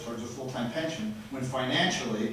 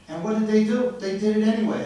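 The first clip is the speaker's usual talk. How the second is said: loud and higher, shouting his frustration; real angry outburst; 7 semitones higher, 7 dB louder than usual. Real, not acted. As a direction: let the anger burst out at the council. Venting anger at council meeting.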